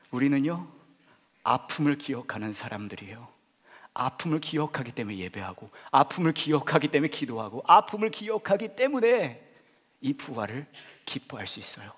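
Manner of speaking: rising from steady to loud and high; building preaching climax. Acted. Preacher to congregation, swelling to a full preached cry. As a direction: build each repeat toward a peak.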